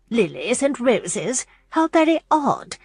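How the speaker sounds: slow puzzled Lilies and roses?; mild musing disdain. A narrator's reading. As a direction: turn the idea over doubtfully. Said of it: "Missus Clark mused".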